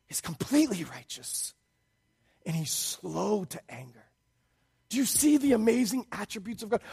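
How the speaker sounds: ordinary delivery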